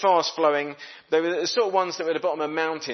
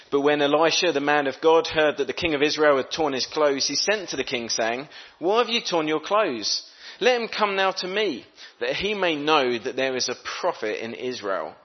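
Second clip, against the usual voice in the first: steady, louder Bible reading; scripture reading; 2 semitones higher, 3 dB louder than usual. Acted. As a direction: read the verse out to the congregation.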